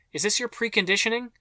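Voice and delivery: high, strained cry; cried out. A narrator's reading. James crying out from her hiding place, high panicked cry. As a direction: fling the question out in panic. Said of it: "James cried".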